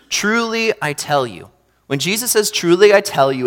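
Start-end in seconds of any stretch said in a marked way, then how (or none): 0.1-1.5 hushed solemn. Shown as a demonstration. Jesus solemnly warns Peter, hushed and grave. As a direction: lean in and hush on Truly. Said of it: "it's time to listen up".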